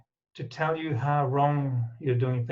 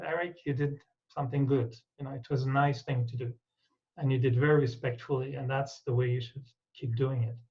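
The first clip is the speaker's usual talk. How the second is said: kind self-talk. Shown as a demonstration. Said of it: "when I say to myself".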